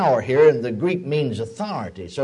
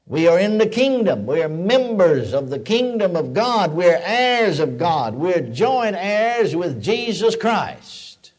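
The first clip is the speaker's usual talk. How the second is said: fervent preaching; slower than usual. Acted. Preacher proclaiming freedom from Satan to the church, fervent. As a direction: proclaim it to the congregation.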